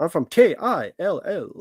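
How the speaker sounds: fake radio announcer voice. Mocking a man who made an eighties documentary, in a fake radio voice. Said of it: "I just have this fake radio voice".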